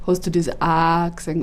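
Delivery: „Hast du das A gesehen?“ said from low in the throat, broad Bavarian; sit the sound down in the throat on „Hast du das A gesehen?“. Shown as a demonstration. Comedian demoing how the typical Bavarian says it, from the throat. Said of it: "unten am Hals".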